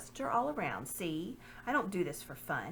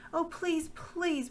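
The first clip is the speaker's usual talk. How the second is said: much higher, desperate begging; pleading girl; 10 semitones higher, 3 dB louder, much slower than usual. Acted. Lucy begging the lord not to separate them, higher. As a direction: beg like a frightened girl.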